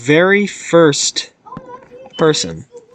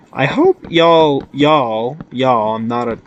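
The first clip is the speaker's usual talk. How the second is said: drawn-out Southern y'all; slow, playful Southern drawl; Southern accent; slower than usual. Pretend. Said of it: "that is not my accent".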